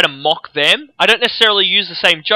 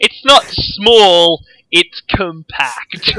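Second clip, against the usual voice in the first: slow deliberate; much slower than usual. Acted. Mock-defining a boast, slow.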